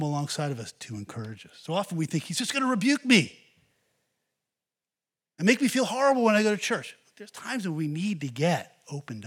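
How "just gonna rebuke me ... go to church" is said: mock dread. Preacher mocking self-pity.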